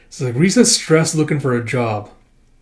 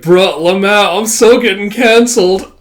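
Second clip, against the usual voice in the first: Gen Z slang; 6 semitones higher, 7 dB louder than usual. Shown as a demonstration. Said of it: "or should I take it further?".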